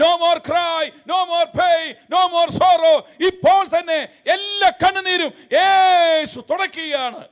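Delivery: hammed-up shouted slogan; mock preacher shout. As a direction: belt it out like a crusade preacher. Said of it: "ഗംഭീരമായ പ്രസംഗം".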